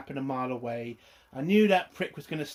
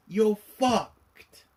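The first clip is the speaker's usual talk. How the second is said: whispered warning; 5 semitones higher, 4 dB louder than usual. Real, not acted. Warning about the rings.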